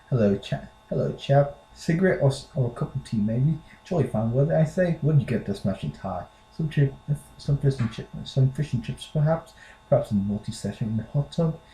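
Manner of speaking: unconvincing British accent; British accent attempt. Shown as a demonstration. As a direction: play a chummy Brit, badly. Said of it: "a typically British sentence".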